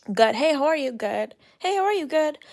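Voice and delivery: mock rote exchange. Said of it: "I'm not gonna say".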